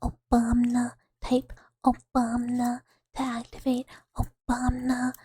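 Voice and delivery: whisper. Shown as a demonstration. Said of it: "You have been gifted bucket".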